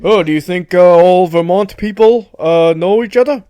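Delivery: mock-affronted politician voice; Bernie Sanders. Politician guest challenges his admirer, light impression. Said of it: "Do, do you know Ben and Jerry too?".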